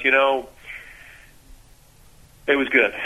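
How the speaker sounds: long pause before it was good; imitating a slow, halting athlete. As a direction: search for words, then land it slowly. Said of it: "And you notice a pause".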